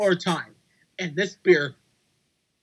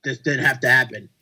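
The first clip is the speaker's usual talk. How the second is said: retold smirk; 6 semitones lower than usual. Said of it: "and then smirks like".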